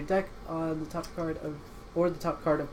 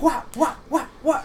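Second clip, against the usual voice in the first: mock surprise; 9 semitones higher, 4 dB louder than usual. Feigned surprise at reaction.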